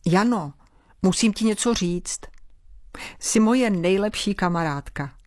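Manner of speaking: serious voice. Acted. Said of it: "vážným hlasem povídá".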